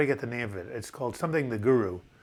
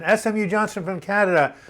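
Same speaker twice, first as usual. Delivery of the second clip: louder, higher, announcing the name like a game-show host; excited call-out; 7 semitones higher, 6 dB louder than usual. Real, not acted. Host calling out a chat viewer by name, loud and excited. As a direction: hail the viewer across the room.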